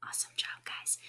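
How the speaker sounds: soft whispered praise and question. Acted. Teacher whispers to her young readers, hushed whisper. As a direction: lean in and whisper it like a secret.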